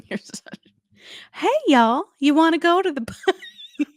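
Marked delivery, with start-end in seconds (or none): 1.3-3.9 high, louder voice, laughing through it; mock Tiana inviting guests; Tiana impersonation. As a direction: chirp the invite, cracking up. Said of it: "my Tiana impersonation".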